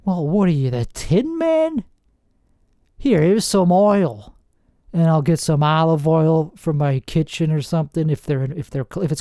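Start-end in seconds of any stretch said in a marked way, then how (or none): 0.0-4.4 sarcastic retort. Pretend. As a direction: drag out the Tin Man line, teasing. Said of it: "That's what I'm gonna say".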